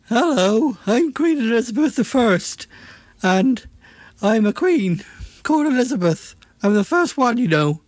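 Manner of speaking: lightly regal queen voice, barely changed; a hint of a grand old queen; Queen Elizabeth the First. Voice actor tries out his Queen Elizabeth voice, lightly regal. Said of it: "let me try my voice out on you".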